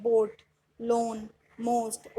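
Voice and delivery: slow, separate बोट, लोन, मोस्ट with long o; long O sound. Shown as a demonstration. Teacher repeating o-a examples, long o in बोट, लोन, मोस्ट. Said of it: "ओ की sound बना रहे हैं".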